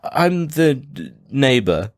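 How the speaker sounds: slow, halting fib, starting high; hesitant, badly faked cover story; unconvincing lie. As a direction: stall before landing the made-up word. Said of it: "it sounds like you're just lying".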